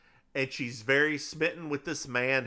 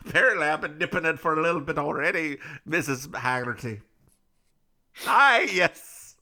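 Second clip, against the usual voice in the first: lightly held Scottish lilt; mock Scottish accent. Haggerty greeting Missus Haggerty, light Scottish accent. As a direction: keep the Scottish accent going. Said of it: "with just this accent I have right now".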